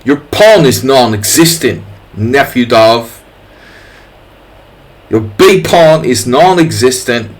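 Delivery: put-on a mild, rubbish British accent. Streamer taunting opponent Nefedov in a rubbish British accent. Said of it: "just like my rubbish British accent".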